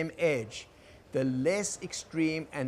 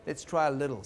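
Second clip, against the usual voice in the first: gentle encouragement. Shown as a demonstration. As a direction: gently nudge someone who is scared to move. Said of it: "hold them gently and say".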